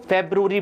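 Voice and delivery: फेब्रुअरी as "feb-roo-ree"; three-syllable फेब्रुअरी, clear "roo"; correct pronunciation. Shown as a demonstration. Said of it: "क्या बुलाएंगे इसको?".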